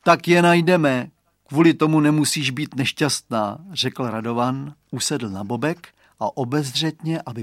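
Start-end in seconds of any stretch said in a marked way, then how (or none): 0.0-3.6 put-on reassuring boy. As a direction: comfort her like a kind little boy. Boy comforting friend.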